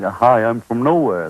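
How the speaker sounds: slow, lightly voiced neutral radio voice; mock the accentless TV announcer; a hint of a smooth broadcaster saying hello; bland announcer impression. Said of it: "the one George Carlin does".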